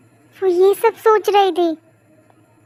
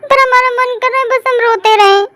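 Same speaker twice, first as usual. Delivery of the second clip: higher, tearful plea to mother; crying; 4 semitones higher than usual. Acted. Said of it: "तू पूछ इसे क्यों रो रही". (माँ से रोते हुए कहना)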